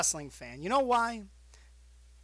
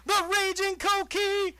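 ring announcer; 9 semitones higher, 4 dB louder than usual. Acted. Hyping himself like announcer.

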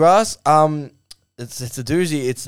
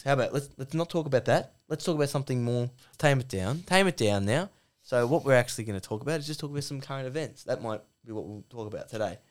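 softer, measured peacemaker; Gary; 6 dB quieter than usual. Acted. Gary asks Duck to tame it down, quiet and reasonable. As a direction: steer him gently to calmer ground. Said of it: "the Gary voice is".

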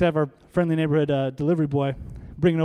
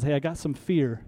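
sly devil voice; 4 semitones lower, 4 dB quieter than usual. Acted. Devil voiced offering fear.

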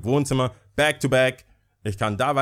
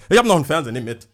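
mother on the phone; 4 semitones higher, 4 dB louder, much faster than usual. Retold or imitated. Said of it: "wie meine Mutter am Telefon war".

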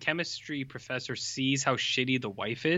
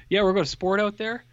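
high, hammy dumb jock; dopey jock voice; 7 semitones higher than usual. Retold or imitated. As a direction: play it like a clueless jock. Dumb jock cricket boy speech.

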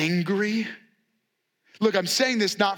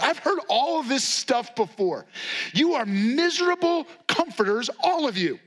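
Job fed up, pitched up with weary emphasis; exasperated Job; 5 semitones higher than usual. Retold or imitated. Job rebuking his friends, fed-up raised voice. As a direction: push back at the friends, voice rising. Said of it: "Job speaks up and he says".

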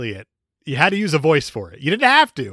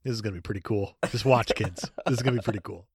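low, soft, lightly voiced old man; hint of a smug older man; Michael Douglas voice; 6 semitones lower, 7 dB quieter, faster than usual. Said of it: "Michael Douglas was like".

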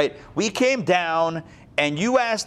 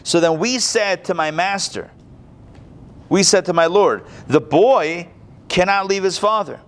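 earnest plea; 3 semitones higher than usual. Acted. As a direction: plead for the boy. Voicing Judah's speech.

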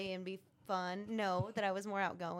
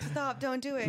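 man doing a woman's voice; 4 semitones higher, 6 dB louder than usual. Retold or imitated. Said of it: "Sound like a girl".

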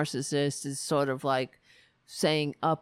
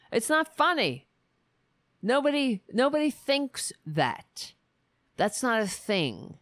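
indignant outburst; 7 semitones higher than usual. Real, not acted. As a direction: push it up in disbelief. Angry rant at the joke.

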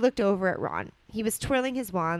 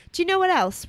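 accusing; 11 semitones higher, 7 dB louder than usual. Acted. Ron accusing.

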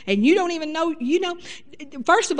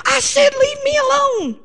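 high, loud finger-pointing demand; mock furious wife; 12 semitones higher, 6 dB louder than usual. Wife finger in husband's face, hammed-up angry. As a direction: jab it at him, mock fury. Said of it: "put her finger in your face and say".

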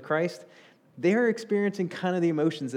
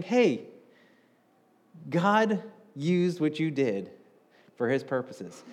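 reassuring Joseph; slower than usual. Retold or imitated. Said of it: "feeling of saying".

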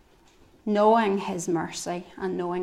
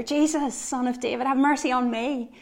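higher and louder retold plea; louder mock shout; 4 semitones higher than usual. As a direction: cry out harder, pitch up on Jesus. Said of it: "he shouted all the louder".

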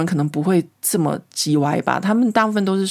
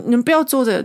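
half-acted scolding, voice raised; retold scolding; 6 semitones higher, faster than usual. French wife scolding the Canadian teammates, mock scold. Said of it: "她就一直骂他们".

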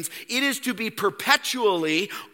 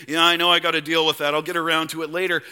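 dismissive excuse; 4 semitones lower, much faster than usual. Pretend. Voicing a procrastinator's excuse.

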